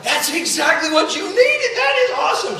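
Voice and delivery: high, loud cheering shout; excited dad. Retold or imitated. Dad tells his daughter it's exactly what she needed, excited shout. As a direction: whoop it out, pitch climbing sharply.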